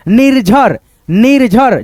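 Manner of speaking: निर्झर in two clear beats, nir-jhar; model reading. Shown as a demonstration. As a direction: sound the half र before झ in निर्झर. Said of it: "ऐसे".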